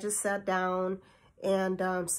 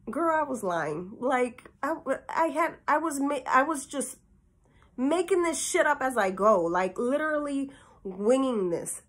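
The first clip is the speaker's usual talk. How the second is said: excited confession; 5 semitones higher than usual. Real, not acted. Confessing she was lying.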